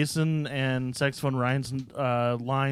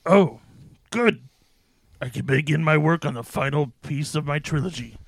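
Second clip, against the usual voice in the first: lightly theatrical demon; 3 dB louder than usual. Acted. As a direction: speak as a pleased, self-important demon. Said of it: "From my demon voice".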